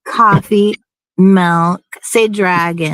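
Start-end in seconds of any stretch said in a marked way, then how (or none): 0.0-1.8 "coffee" as "cahfee", "milk" with short i; standard coffee and milk. Shown as a demonstration. Correcting the Jersey speaker, cahfee and milk. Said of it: "You say".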